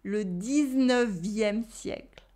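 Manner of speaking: le dix-neuvième siècle as a final model; model pronunciation. Shown as a demonstration. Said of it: "One last time".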